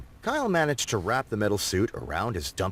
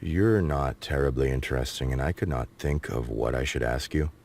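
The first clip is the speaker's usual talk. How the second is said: Kyle voice; 11 semitones lower than usual. A narrator's reading. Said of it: "Kyle insulting his guest".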